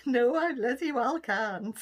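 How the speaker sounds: ordinary delivery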